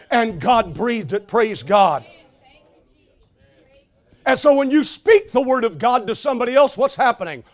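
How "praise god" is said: ordinary delivery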